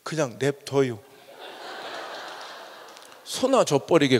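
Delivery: put-on low, soft old Chungcheong man shrugging it off; blunt old man. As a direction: toss it away like a stubborn grandpa. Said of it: "할아버지 대뜸 그러더래". (충청도 할아버지처럼 낮고 무심하게)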